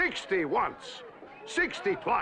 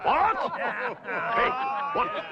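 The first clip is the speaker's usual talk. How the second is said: startled outburst; 4 semitones higher than usual. Acted. Auctioneer spotting the boy mid-pitch, startled. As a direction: jump at the sight of the boy.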